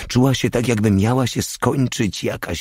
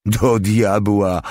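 a slow, louder curse broken up by laughter; laughing curse; 3 semitones higher, 4 dB louder, slower than usual. A narrator's reading. Mały laughing at the fat woman's talk of marriage, laughing curse. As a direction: laugh it out, tickled by the joke. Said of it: "roześmiał się mały".

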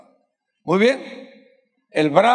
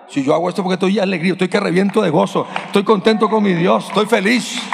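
retold joyful preacher; 2 semitones higher, 4 dB louder than usual. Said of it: "Me dice".

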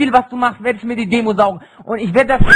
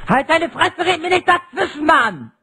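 berserk rage; 3 semitones higher, 3 dB louder than usual. Real, not acted. Raging teen in voice chat fight.

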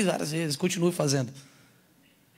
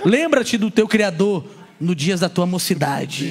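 solemn reading; 4 dB louder, slower than usual. Pretend. Reading verse aloud solemnly.

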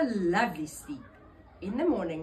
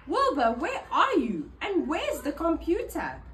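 worried calling; 6 semitones higher, 7 dB louder than usual. A narrator's reading. Searching frantically for her cat.

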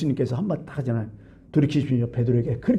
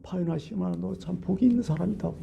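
soft, tender approval; quietly delighted blessing, retold; pleased praise; 2 semitones higher, 8 dB quieter than usual. Jesus praising Peter after his confession, tenderly pleased. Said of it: "너무 기뻐하시잖아".

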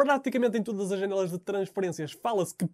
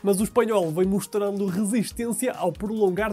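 measured, projected sports bulletin delivery; news read; 4 dB louder than usual. Acted. Anchor reporting transfer news to viewers, news read.

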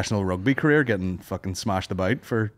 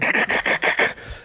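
rapid piercing drum rattle; imitated drum noise. Presenter hitting the drum, imitated piercing rattle. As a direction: mimic a piercing drum clatter. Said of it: "This fucking piercing noise".

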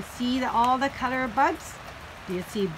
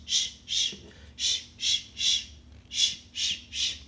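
breathy unvoiced shh sounds; soft shushing; 5 dB quieter than usual. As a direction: hush the bus gently. People on the bus go shh.

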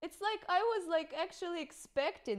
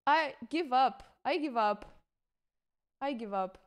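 resigned. Real, not acted. Repeated resignation fading.

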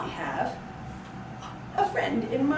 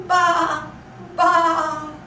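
lamb bleat; 5 semitones higher, 5 dB louder than usual. Pretend. Imitating lamb for toddlers.

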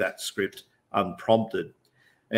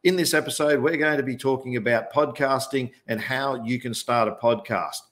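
podcast host intro; 3 semitones higher than usual. Shown as a demonstration. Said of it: "you might hear me say on a podcast".

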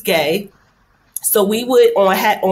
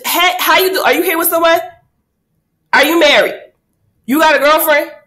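chatty wingwoman; 8 semitones higher, faster than usual. Retold or imitated. Approaching a stranger for friend.

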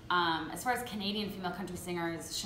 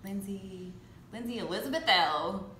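attempted Canadian accent on her own full name; Canadian homegirl accent. Shown as a demonstration. Singer answering a fan's request for her name, attempted Canadian accent. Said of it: "In your best Canadian homegirl accent".

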